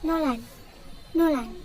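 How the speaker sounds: "Nolan" said as NO-ran, Korean style; pronunciation demo. Shown as a demonstration. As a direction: model "Nolan" twice with falling endings. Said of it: "how to pronounce it in Korean".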